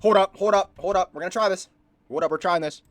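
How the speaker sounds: loud, high, eager call to pause the video; urgently stopping the clip to try it out; excited hold up. Real, not acted. Streamer halting the video for viewers, loud and excited.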